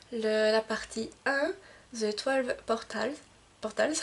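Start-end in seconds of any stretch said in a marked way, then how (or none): 2.0-3.9 slow, careful English with a French accent. Real, not acted. Book vlogger reading an English title, French accent. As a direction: sound out English words with French pronunciation. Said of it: "désolée pour mon accent anglais".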